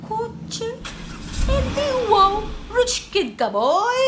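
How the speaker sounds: high loud mock amazement; amazed. Real, not acted. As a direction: gasp at how pricey it is. Reacting to a car request. (gulat na gulat)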